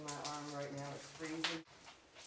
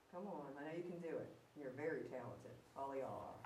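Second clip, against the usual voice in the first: coaxing a ghost; 6 dB quieter than usual. Real, not acted. Coaxing spirit to touch device.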